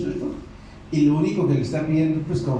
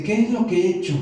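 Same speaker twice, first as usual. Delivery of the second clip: probing question; 7 semitones higher, faster than usual. Retold or imitated. Jesus asks the disciples.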